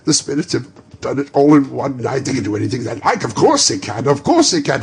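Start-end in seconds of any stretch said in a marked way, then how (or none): 4.1-4.8 louder, higher shout of the same words; joyous shout. Acted. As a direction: cry it out in joy. Repeated phrase, shouted.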